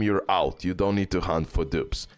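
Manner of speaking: ordinary talk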